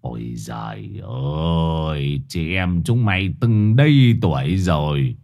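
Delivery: lightly voiced old man, sighing then scolding; a hint of a weary grandfather scolding the girls. Old uncle scolding the girls by the dirty pond, lightly sighing. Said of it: "Ông thở dài".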